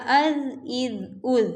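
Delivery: از said with a soft, unhissed ز. Shown as a demonstration. Teacher showing the soft zaal sound. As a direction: keep the ز in از soft and gentle. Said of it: "بلکہ نرمی سے اس کو پڑھا جائے گا".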